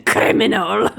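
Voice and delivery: "Criminal" loud with a hard Russian K; mock-Russian "Criminal", heavily hit at the front. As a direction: punch the K in "Criminal". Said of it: "with a K".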